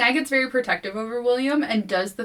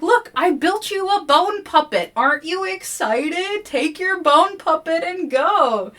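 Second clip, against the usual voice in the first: very high, loud forced brightness; desperate cheer; 11 semitones higher, 6 dB louder than usual. Retold or imitated. Sky distracting the voices with a bone puppet, high forced cheer. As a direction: sell it like a frantic host. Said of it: "She's like".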